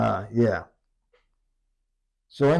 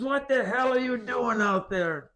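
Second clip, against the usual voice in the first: much higher, incredulous demand; incredulous caller; 13 semitones higher than usual. Retold or imitated. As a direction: demand it in disbelief.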